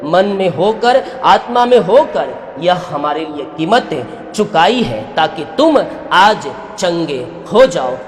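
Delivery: emphatic, projected sermon delivery with rising phrase ends; fervent preaching. Real, not acted. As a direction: preach healing with conviction. Preaches a healing message.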